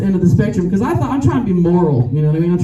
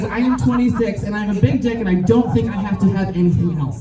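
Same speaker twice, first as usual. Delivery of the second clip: mock cocky young guy; 3 dB quieter than usual. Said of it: "an air about you that says".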